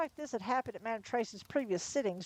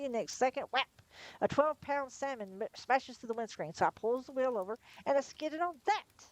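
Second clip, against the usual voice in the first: higher, agitated northern driver; flustered lorry driver; 6 semitones higher than usual. A narrator's reading. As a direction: insist the fish fell from the sky. Flustered lorry driver pleads with police.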